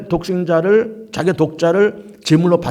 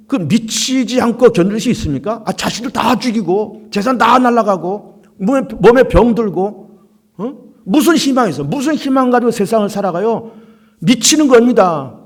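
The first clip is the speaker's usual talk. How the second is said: rising preaching pitch; 5 semitones higher than usual. Real, not acted. Preacher builds to high pitch.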